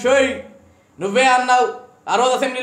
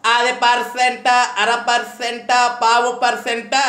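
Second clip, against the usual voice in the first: mocking sarcasm; slower than usual. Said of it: "మీరు ఎటకారం చేయటం".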